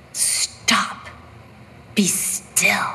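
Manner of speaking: hushed, breath-heavy command; commanding the waves. Acted. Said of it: "he could say to the, to the violent waves".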